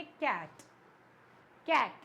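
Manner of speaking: कैट in one unbroken beat; said as one piece. Shown as a demonstration. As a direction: say कैट whole, with no break inside. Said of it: "एक साथ".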